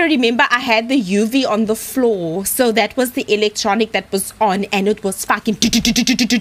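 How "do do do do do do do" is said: quick stuttered "do-do-do"; imitated rapid beeping. Showing chat how the electronic went off, rapid imitated noise. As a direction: rattle it off like a fast electronic detector.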